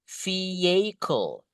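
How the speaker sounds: VEHICLE with silent H, "fee-YAY-kol"; correct pronunciation. Shown as a demonstration. Teacher giving learners the model, VEHICLE said without its H. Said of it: "is the correct one".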